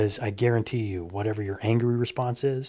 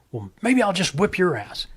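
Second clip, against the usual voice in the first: threat; 7 semitones higher than usual. Retold or imitated. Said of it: "Finally he goes".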